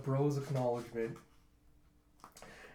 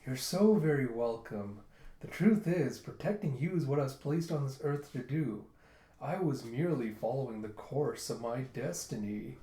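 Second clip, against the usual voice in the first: put-on charm. Pirate charming rescued girls, mock suave. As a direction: imitate a flatterer laying on the charm. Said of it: "tries to put on his charm".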